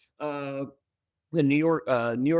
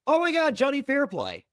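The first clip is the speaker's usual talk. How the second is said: excited fan; 13 semitones higher than usual. Retold or imitated.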